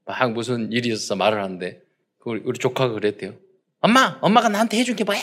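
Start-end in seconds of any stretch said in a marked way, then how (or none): 3.8-5.2 defiant nephew retort. Retold or imitated. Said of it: "이러더라고요".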